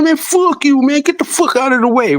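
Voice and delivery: high-pitched imitated road spat; mock angry retort. Truck driver telling dude to get out of the way, mock angry retort. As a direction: act out an annoyed driver, pitch well up.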